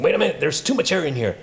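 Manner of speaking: voicing the stomach. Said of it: "the mechanics of your stomach saying".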